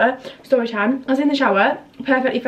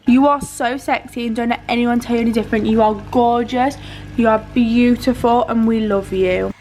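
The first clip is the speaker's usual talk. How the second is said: sincere affirmation. Acted. Affirming the viewer in the mirror.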